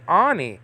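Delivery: Ani said as ah-NEE, Hebrew style. Shown as a demonstration. Teacher modelling the Hebrew word Ani. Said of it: "We can say".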